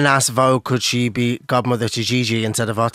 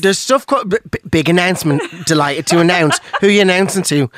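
higher, louder stumbling announcer hype; mock hype; 5 semitones higher, 4 dB louder than usual. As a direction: puff up a fake big reveal. Mocking his own big announcement.

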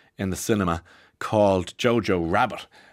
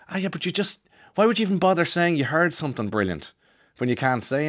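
mock whiny kid; 8 semitones higher than usual. Classmate complaining.

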